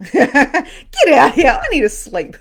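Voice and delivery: loud, high, laughing dismissal; playful retold yell, stretched out; banishing shout. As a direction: order the ghosts out loudly, half laughing. Ordering ghosts out, retold.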